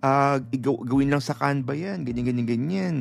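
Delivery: scoffing officer. Retold or imitated. Mimicking the immigration officer scoffing at her certificates. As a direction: scoff at the papers like a smug officer.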